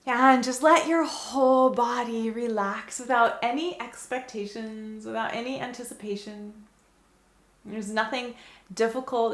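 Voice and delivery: measured meditation-guide delivery; calm guiding voice with gentle pauses; guided meditation. Acted. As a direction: ease them into relaxing, phrase by phrase. Leads the meditation.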